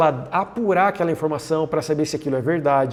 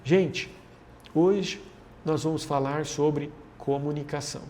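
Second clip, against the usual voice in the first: bored-sounding intro with long gaps; monotonous presenter; 2 semitones lower, 6 dB quieter, slower than usual. Shown as a demonstration. Presenter opening a video on communication, monotonous and tedious. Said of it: "você vai achar monótono".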